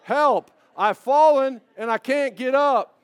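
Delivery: high, loud, slow cry for help; imitating the Life Alert lady, loud and high; Mrs Fletcher's cry. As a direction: wail it like the fallen old lady in the ad. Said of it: "what does she say?".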